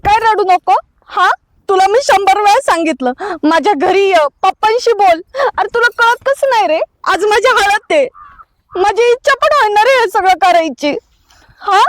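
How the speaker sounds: a hurt bride scolding her lover; tearful anger. Acted. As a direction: confront him through tears. Bride confronts hesitant lover.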